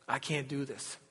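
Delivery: a soft, humble surrender; humble and quiet. Retold or imitated. Preacher voicing a humble prayer to the Lord, soft and humble. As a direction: admit it softly, giving up to God.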